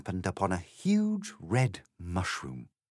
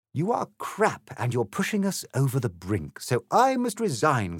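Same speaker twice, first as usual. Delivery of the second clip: crying out; 6 semitones higher, 3 dB louder than usual. A narrator's reading. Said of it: "cried the M P".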